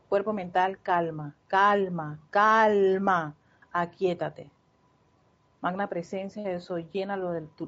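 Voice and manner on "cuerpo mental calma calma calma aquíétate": calmando con firmeza. Shown as a demonstration. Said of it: "aquíétenlo".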